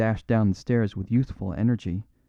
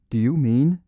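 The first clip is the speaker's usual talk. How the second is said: raucous undertone; 4 semitones higher, 5 dB louder than usual. A narrator's reading. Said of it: "spoke in a raucous undertone".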